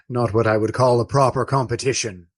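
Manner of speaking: quick, laughing brush-off; laughing dismissal. Acted. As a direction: laugh it off, a bit hurried. Friar laughs off the rivalry.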